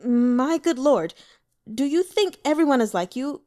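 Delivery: a forced smile straining through the words; exasperated servant pleading with his stubborn lord; strained exasperation. Acted. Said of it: "Pei Jingzhe's smile was strained".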